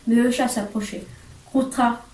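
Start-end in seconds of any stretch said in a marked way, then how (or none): none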